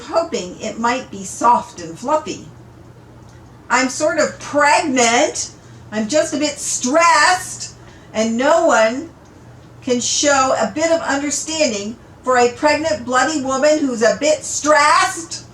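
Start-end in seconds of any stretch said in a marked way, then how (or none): 3.7-15.4 tearful outburst. Acted. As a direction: let the stress spill out. Parvana tearful outburst continues.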